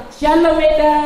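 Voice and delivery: sweet greeting. Retold or imitated. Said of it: "Adanya orang".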